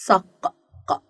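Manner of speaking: "صق، ق، ق" with the final qaf popped separately; "صق" ending in a crisp, isolated "ق"; qaf sound isolated. Shown as a demonstration. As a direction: sound out "صق", then repeat the bare "ق" stop. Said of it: "يلا نسمع صوت حرف القاف".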